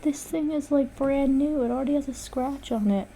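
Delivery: high-pitched, upset complaint; dismayed lament. Real, not acted. Artist laments the scratch on brand new tablet, upset.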